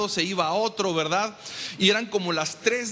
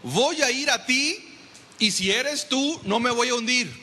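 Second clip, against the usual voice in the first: confident Peter; 5 semitones higher than usual. Retold or imitated. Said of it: "Qué te parece que Pedro hubiera hecho esto".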